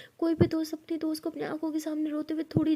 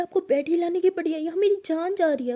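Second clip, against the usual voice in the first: frustrated outburst; 4 semitones higher, 5 dB louder than usual. Acted. Rose snaps back at sister.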